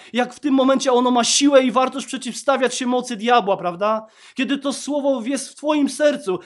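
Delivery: loud, fervent sermon delivery; preaching. Acted. Pastor preaching loudly to the congregation.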